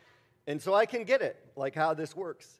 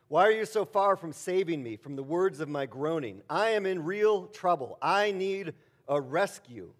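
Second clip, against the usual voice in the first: louder, higher pleading lament; louder psalm cry; 4 semitones higher, 6 dB louder than usual. Acted. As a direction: plead for rescue, slowing at the end. Reading the psalm's cry aloud.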